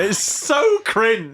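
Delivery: slow, embarrassed whisper. Real, not acted. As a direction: whisper it under your breath. Whispered aside.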